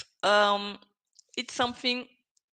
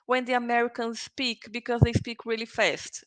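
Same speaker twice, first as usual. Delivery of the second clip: imitating a student; 2 semitones higher than usual. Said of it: "when you say to me".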